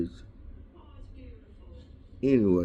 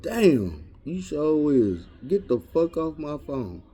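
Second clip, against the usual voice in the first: raised pitch, emphatic put-down; mock dismissive comeback; 6 semitones higher, slower than usual. Man replying to his date on the phone, mock dismissive. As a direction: act out brushing off the caller.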